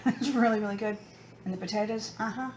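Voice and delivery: talking through a mouthful of steak; words muffled by a full mouth; cheeks stuffed full. Real, not acted. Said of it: "now my mouth is full".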